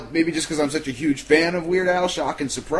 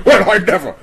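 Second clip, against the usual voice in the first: mock offended Brit; 2 semitones higher, 7 dB louder than usual. Mocking stuffy Loomis.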